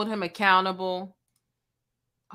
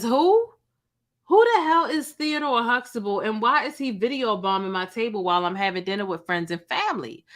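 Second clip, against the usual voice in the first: reading his response. Retold or imitated. Vlogger reading D L Hughley's reply to the video, mildly indignant. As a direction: read out the comedian's indignant reply with a lift. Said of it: "He says".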